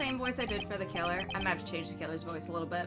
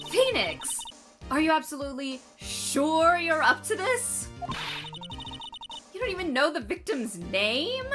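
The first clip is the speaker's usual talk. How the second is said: shocked outburst; 6 semitones higher than usual. Acted. Larry shouting in disbelief.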